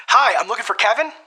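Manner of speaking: bright, high-pitched friendly greeting; high energy. Shown as a demonstration. Cold caller greeting the gatekeeper with high-energy friendliness. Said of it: "Hit 'em with that".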